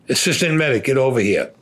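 retold officer barking an order across the room; calling out. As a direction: summon the assistant medic sharply. Officer calling the assistant medic over.

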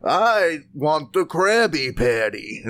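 slow, lightly voiced tiny villain; a hint of scheming Plankton, drawn out; mild cartoon villain demand, slow; Plankton impression. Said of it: "Let me do a Plankton".

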